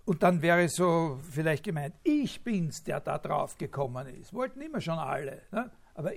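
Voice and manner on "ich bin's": "ich" punched high, "bin's" falling after it; emphatic, raised "ich"; stress on ICH. Shown as a demonstration. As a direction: put all the weight on "ich". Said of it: "Betonung auf dem Ich".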